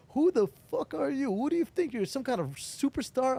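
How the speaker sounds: a hammed-up hostile stranger; mock angry challenge. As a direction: bark it out like a blunt editor calling him out. Editor confronts him, retold.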